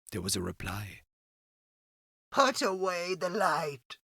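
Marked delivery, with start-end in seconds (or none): 2.3-4.0 slow, quiet plea from the dark; the hidden man begging; frightened stranger voice. Acted. Unseen voice from the boat.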